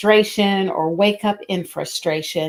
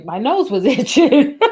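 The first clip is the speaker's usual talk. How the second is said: rozbawienie; 3 semitones higher, 4 dB louder than usual. Real, not acted. Embarrassed laugh at own slip.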